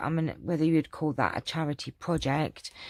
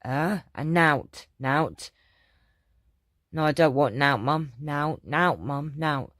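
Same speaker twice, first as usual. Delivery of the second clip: put-on Yorkshire accent; slower than usual. Mum imitating daughter refusing in Yorkshire accent. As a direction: drop the letters like a Yorkshire kid. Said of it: "And she'd go".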